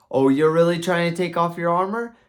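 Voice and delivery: high, loud sceptical question; mock disbelief. Wife doubts her husband's trying, mock disbelief.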